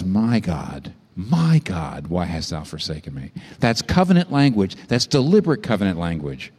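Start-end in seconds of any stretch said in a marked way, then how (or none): 0.0-3.3 forsaken cry. Acted. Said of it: "He says".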